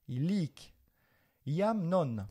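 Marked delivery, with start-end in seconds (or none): 0.1-0.7 Illic with the accent on the end, il-LIC; stress on the last syllable. Shown as a demonstration. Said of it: "on accentue sur la fin".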